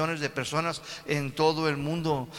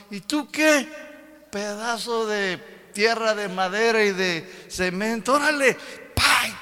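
high, scornful God voice; God scolding the idol like a worthless lump; 5 semitones higher, slower than usual. Acted. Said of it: "Y el Señor mira y dice".

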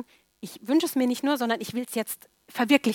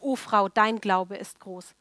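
slow, solemn Jesus; 2 semitones lower, slower than usual. Acted. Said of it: "da antwortete Jesus und sprach".

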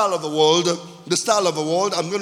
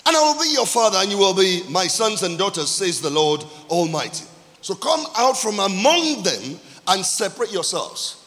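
drawn-out, weighty pulpit proclamation; emphatic scripture reading. Real, not acted. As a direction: proclaim the verse, leaning on key words.

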